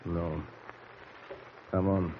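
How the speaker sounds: low, soft sneaking voice; hushed whisper. Acted. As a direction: whisper to a partner in the dark. Sneaking into a sleeping boy's cabin.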